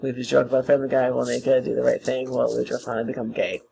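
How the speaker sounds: deep booming show announcer; big announcer voice. Acted. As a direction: read it like a fight night hype man. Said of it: "read this in the big announcer voice".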